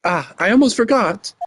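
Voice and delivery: high, formal bellboy voice. Acted. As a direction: play an obsequious hotel bellboy. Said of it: "I am the bellboy".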